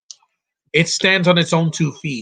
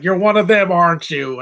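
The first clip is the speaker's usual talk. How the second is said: louder, higher accusing line; mock movie villain; 4 semitones higher, 4 dB louder than usual. Quoting the film, mock suspicious villain. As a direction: play the villain's suspicious challenge.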